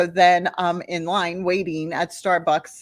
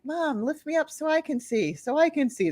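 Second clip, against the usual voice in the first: put-on pleading kids; 8 semitones higher, 5 dB quieter than usual. Voicing the little kids begging.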